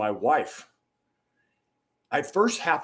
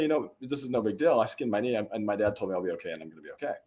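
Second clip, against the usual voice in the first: calm; 4 semitones lower, faster than usual. Retold or imitated. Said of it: "if I'm calm".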